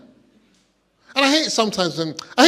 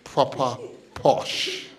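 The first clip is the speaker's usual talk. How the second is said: slow, breathy whispered proper posh; hushed mocking posh aside; 4 semitones lower, 5 dB quieter, much slower than usual. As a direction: breathe it like a snob.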